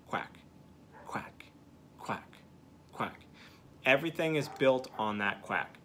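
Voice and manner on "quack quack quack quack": mouthed quacks. Shown as a demonstration. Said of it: "what I just did was a single note".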